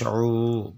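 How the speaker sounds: "উ" with the vowel drawn out; one-alif madd. Shown as a demonstration. Teacher spelling out the madd, lengthened "উ". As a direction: lengthen "উ" steadily. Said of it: "এক আলিফ টান".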